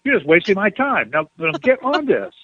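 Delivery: mock stern, clipped reprimand; curt scolding. Telling him to get on it, mock stern scolding. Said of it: "She was kinda short".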